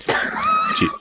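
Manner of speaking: shout. Acted. Poetry slam exchange, sudden shout.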